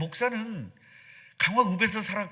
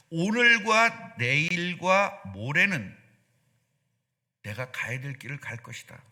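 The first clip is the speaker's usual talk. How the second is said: slow quoted verse; slower than usual. Acted. Quoting Jesus' words slowly.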